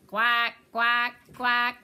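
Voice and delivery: loud quacking duck greeting at the door. Acted. Little Duck greets the pigs.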